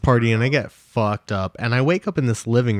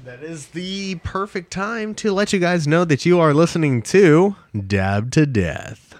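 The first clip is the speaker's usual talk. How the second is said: host intro; 3 semitones higher, slower than usual. Acted. Podcast host plugs the show.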